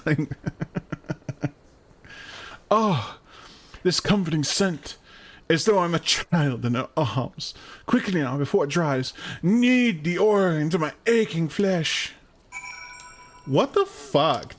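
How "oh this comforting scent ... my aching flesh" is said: lightly voiced pompous pleasure-bot; opulent robot. A hint of a pompous robot, asking for the oil to be kneaded in. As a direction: savour each word like a decadent robot. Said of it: "the opulent robot".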